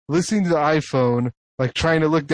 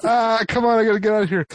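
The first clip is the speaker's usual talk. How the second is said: retold impatience; 6 semitones higher, faster than usual. Acts impatience in supermarket.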